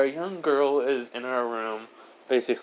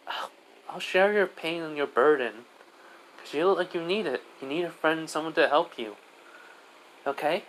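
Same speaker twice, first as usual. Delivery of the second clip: lightly voiced child, higher pitch; somewhat high, reassuring kid voice; comforting little girl Diane; 5 semitones higher than usual. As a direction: console a friend as a small child.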